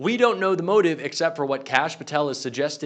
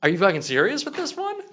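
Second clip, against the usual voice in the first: upset; 4 semitones higher than usual. Real, not acted. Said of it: "seeming a little upset right now".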